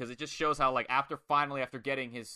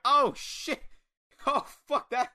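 loud, much higher mock crowd shout; crowd yelling; 11 semitones higher, 4 dB louder, slower than usual. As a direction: shout it like a rowdy wrestling crowd. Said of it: "the crowd are all like".

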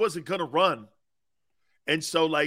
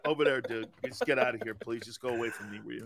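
weary dismissal; 6 semitones lower, 7 dB quieter, faster than usual. Retold or imitated. Weary reply to the friend.

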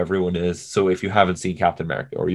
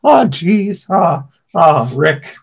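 high, loud nasal stammer; Morty voice; 8 semitones higher, 5 dB louder, much slower than usual. Retold or imitated. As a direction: play a panicky teen sidekick. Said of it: "It's not like it is not a close impression".

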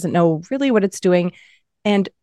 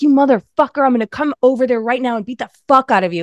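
mock-furious threat, pitched up; irate caller; 3 semitones higher, faster than usual. Caller threatening an unflappable chatbot, playfully furious. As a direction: rant like a customer who has lost it.

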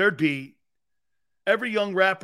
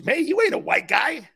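loud quote; 6 semitones higher, 4 dB louder than usual. Retold or imitated. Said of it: "He goes".

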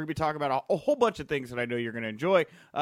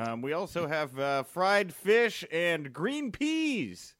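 school principal announcement; much slower than usual. Pretend. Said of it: "principal's morning announcements".

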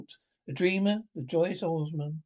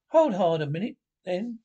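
Rat's call to wait; 2 semitones higher, 6 dB louder than usual. Acted. Rat halts Mole.

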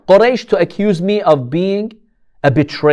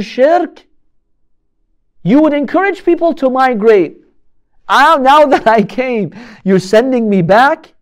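desperate plea; 6 semitones higher than usual. Retold or imitated. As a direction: beg them not to send you back. Abu Jandal pleads, tortured captive.

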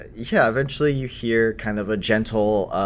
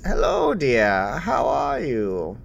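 put-on gentle old woman; 3 semitones higher, slower than usual. Elderly Grandmaster greets gently.

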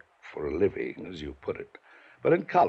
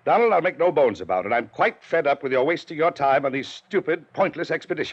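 angry scolding; 5 semitones higher, 4 dB louder than usual. Acted. Uncle scolds nephew angrily.

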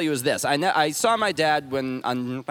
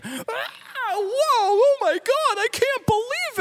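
mock amazement; slower than usual. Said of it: "And he was like".

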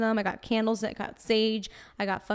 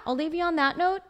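put-on higher-pitched Brooklyn accent; 7 semitones higher than usual. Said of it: "doing the Brooklyn accent".

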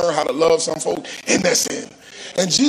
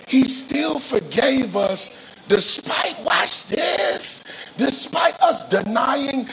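raised, emphatic sermon delivery; impassioned preaching; 5 semitones higher than usual. Real, not acted. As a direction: preach it with rising pitch, then land it.

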